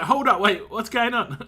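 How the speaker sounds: imitating someone loudly baffled; mock bewilderment. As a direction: act out a startled double take. Retold reaction in accent video.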